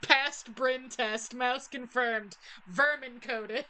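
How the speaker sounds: high, slow put-on mousy voice; mock mouse voice. Player declares the caller vermin, mock mouse voice. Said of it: "sounds like a voice I would do".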